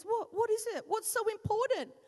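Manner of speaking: husband disturbed while watching sport; irritated husband. Retold or imitated. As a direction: play the interrupted husband, put out. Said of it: "He goes".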